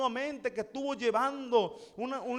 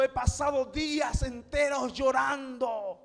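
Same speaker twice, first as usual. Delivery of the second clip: dramatic lament; 2 semitones higher, slower than usual. Retold or imitated. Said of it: "el salmista está expresando".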